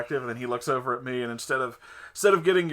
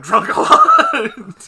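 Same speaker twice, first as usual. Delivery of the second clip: laughing; 10 semitones higher, 14 dB louder, much slower than usual. Real, not acted. Laughing about seeming drunk.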